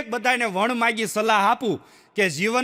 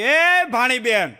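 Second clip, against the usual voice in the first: retold shout. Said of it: "સાંદા મામાએ રાડ નાખી".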